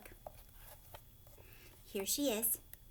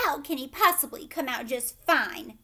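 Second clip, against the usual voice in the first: snapped; 3 semitones higher, 7 dB louder than usual. A narrator's reading. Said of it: "snapped Missus Gloop".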